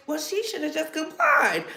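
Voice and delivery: soft, prim mock white woman with a laugh. Mocking the white woman who blames the victim, prim and soft. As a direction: sneer it like a smug white lady. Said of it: "the white woman out here saying".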